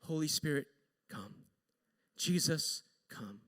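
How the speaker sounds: hushed, low mock inner prayer; silent prayer. Wife praying in her head over the coworker, hushed. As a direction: drop to a near murmur on each "come". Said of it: "she's not praying out loud, but she just prays".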